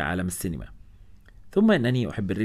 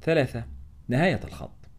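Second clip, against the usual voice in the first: announced heading, higher and set apart; title read with a stop on نهاية, falling on الخط; chapter title; 4 semitones higher than usual. A narrator's reading. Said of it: "chapter heading".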